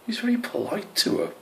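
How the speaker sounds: hushed, high squirrel whisper. A narrator's reading. Whitetip whispering to Squish about Brian, hushed. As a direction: lean in and whisper it. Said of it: "Whitetip whispered".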